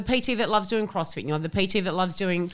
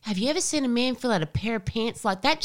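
higher, admiring mum voice; 5 semitones higher than usual. Retold or imitated. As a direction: marvel at the weatherman as Mum. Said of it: "She goes".

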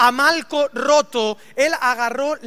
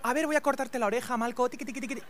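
bajito, con cuidado fingido; Pedro delicado, en broma; 8 dB quieter, faster than usual. Retold or imitated. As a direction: imita una operación minuciosa y suave. Pedro imaginado cortando con delicadeza. (parodia leve de un Pedro cuidadoso)

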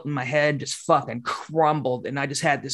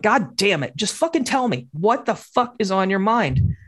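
raised, exasperated mother; exasperated mom; 5 semitones higher than usual. Retold or imitated. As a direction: mom losing patience.

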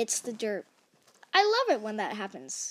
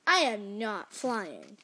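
deliberate correction; 2 semitones lower, slower than usual. Acted. Piggy corrects Gerald.

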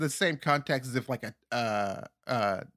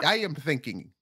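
Akinator. Acted. Psychic game character guessing your thought, thick put-on accent. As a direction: guess minds in a hammy foreign accent. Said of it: "the voice you were doing is how I imagine Akinator sounds".

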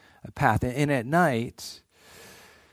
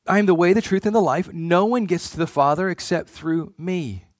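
preaching at full force; 4 semitones higher, 5 dB louder than usual. Acted. Quoting Jesus at full force.

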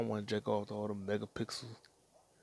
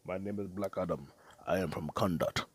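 mock Rock; 4 semitones lower than usual. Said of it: "I knew he was gonna say".

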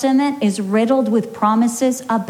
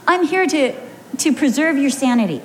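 raised and fast, playful defence; husband's high, quick teasing reply; 4 semitones higher, faster than usual. Retold or imitated. Husband teasing wife about her driving, high and quick. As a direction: pitch it up and rattle it off, teasing. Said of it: "And he says".

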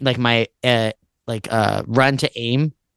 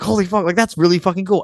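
impressed mom; 6 semitones higher than usual. Retold or imitated. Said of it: "And my mom was like".

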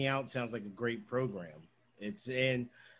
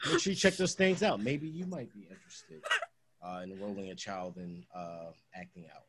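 a hint of an official work voice; customer service voice; 3 semitones lower than usual. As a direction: read it like a polite company ad. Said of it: "I like that you can say whatever in that tone of voice".

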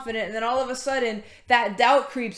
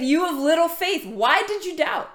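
mild mock scolding, pitched up; acted rebuke; 5 semitones higher than usual. Preacher voicing Jesus rebuking Peter for doubting, reproachful. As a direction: imitate a reproachful teacher, higher and insistent. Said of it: "he rebuked him".

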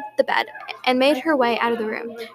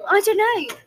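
shaky; 6 semitones higher, 5 dB louder than usual. A narrator's reading. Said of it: "Mabel replied shakily".

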